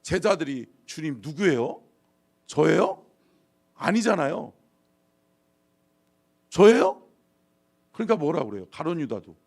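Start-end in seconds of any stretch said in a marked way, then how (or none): 0.8-3.0 brazen innocent questioning; louder, cheeky "me?"; shameless feigned innocence. Acted. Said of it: "뻔뻔스럽게". 6.5-7.0 high, loud, incredulous "me?"; shameless feigned innocence. Acted. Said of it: "뻔뻔스럽게".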